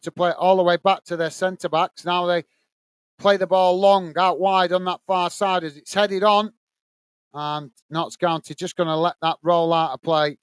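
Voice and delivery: steady live match commentary; play-by-play. Acted. Commentator calling the match for stream viewers, play-by-play. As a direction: call the action as it unfolds.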